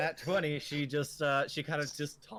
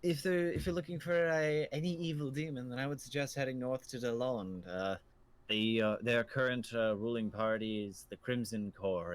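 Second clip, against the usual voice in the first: put-on old innkeeper. Innkeeper directions.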